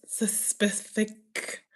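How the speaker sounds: "specific" halting and slow, after a false "sus-"; mispronounced word. Shown as a demonstration. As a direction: fumble softly through "specific". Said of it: "certain words we just can't say".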